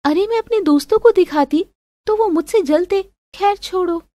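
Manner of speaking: high-pitched, huffy voice; pouting girlfriend. Acted. Girlfriend wanting to show off to friends, sulky. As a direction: pout and give up huffily.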